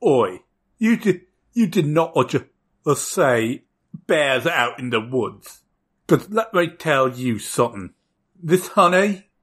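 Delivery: put-on British accent. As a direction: speak up in a shaky attempt at British. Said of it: "a British flag accent".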